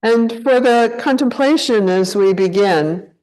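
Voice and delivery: unhurried meditation guide, long pauses between phrases; guided meditation. Acted. Teacher leading a group to check into the body, guided meditation. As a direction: guide them gently into contemplation, leaving space after each phrase. Leads a contemplation.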